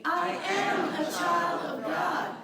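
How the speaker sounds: very slow, loud, every word weighted; slow affirmation. Shown as a demonstration. Minister leading the congregation's affirmation, slow and emphatic. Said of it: "Say it with me".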